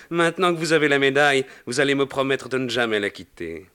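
put-on an old Pope charming a lady, lightly Italian; playful, gently teasing Pope; a lightly voiced Italian Pope, amused; Pope with Italian accent. The Pope speaks to Macaré.

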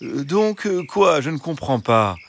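high, hesitant fox voice; puzzled fox. A narrator's reading. Fox asks what the hens mean, puzzled. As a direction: play innocent confusion in a high voice. Fox feigns not understanding.

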